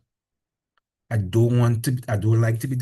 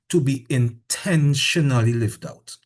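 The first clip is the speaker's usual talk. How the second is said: slow, leaning on "intentionally"; teacher stressing intentionally; 3 dB louder than usual. Shown as a demonstration. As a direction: give "intentionally" weight, slowly. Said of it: "I emphasize the word intentionally".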